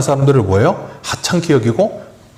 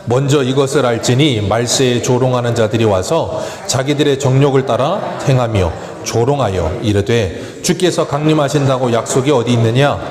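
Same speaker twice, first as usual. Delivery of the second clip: steady Bible reading voice; scripture reading. Acted. Pastor reading Second Peter aloud, steady reading. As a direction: read the verses evenly to the church.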